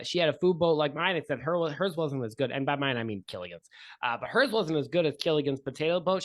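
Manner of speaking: chatty cook spilling harbor gossip, lightly voiced; a hint of a gossiping sailor leaning in; gossipy boat cook. Steve gossips to the couple about the pirate, lightly voiced.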